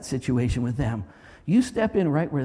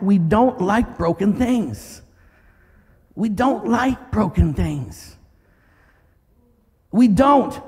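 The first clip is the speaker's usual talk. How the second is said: slow emphasis; 4 semitones higher, 3 dB louder, much slower than usual. Real, not acted. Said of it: "repeated slow emphasis".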